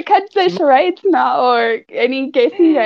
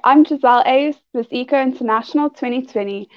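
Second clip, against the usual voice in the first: podcast intro read. Acted.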